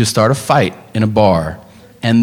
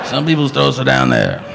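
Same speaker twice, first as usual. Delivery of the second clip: lightly voiced Seagal; 2 semitones lower, 4 dB quieter than usual. Seagal answers as fight instructor.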